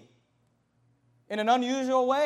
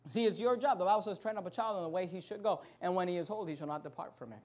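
much softer, intimate close; quiet earnest appeal; 4 semitones lower, 8 dB quieter, faster than usual. Acted. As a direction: lower the voice and plead gently.

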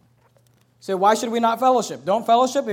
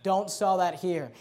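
quiet firm warning; 4 semitones lower, 6 dB quieter, slower than usual. Pretend. Church telling sellers to leave.

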